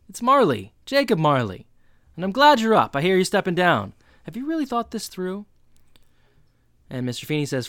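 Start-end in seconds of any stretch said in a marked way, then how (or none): 0.1-5.4 higher, louder ghostly Marley. Acted. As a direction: loom over him, pitched up. Ghost Marley confronts Feeney.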